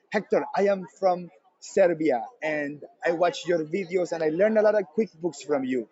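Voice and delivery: imitating a Serbian fan with Eastern European accent. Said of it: "this Eastern European accent".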